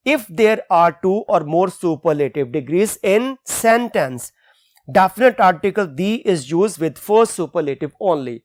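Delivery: slow, clear rule dictation; dictating a rule. Shown as a demonstration. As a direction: read the rule out slowly for notes. Teacher reads rule slowly. (धीमे और साफ़ नियम बोलना)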